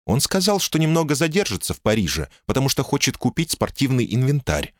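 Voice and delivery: calm, sensible woman speaking up high; woman's voice. Acted.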